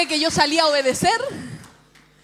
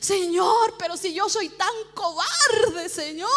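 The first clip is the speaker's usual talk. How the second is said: re-enacted choked-up plea, slow and raised; moved pleading; 3 semitones higher, slower than usual. Preacher confessing cowardice to the Lord, moved pleading. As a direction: plead slowly, acting overcome. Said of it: "muy conmovida me ahogo".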